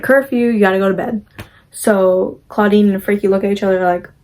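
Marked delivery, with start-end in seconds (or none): 0.0-1.2 quick announcement over a school loudspeaker. Retold or imitated. School loudspeaker tells the students to go to bed, a quick announcement. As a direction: rattle it off like the intercom. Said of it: "Loudspeaker comes in and it's like".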